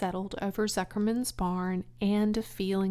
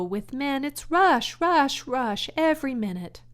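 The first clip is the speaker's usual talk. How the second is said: higher, louder rush rush rush; mocking hurry; 6 semitones higher, 6 dB louder than usual. Charlotte scoffing at busy men, emphatic.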